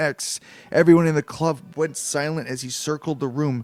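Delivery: ordinary delivery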